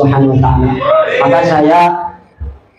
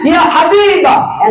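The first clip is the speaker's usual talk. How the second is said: drawn-out loving call; 12 semitones higher, slower than usual. Retold or imitated. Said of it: "Enak, Pak".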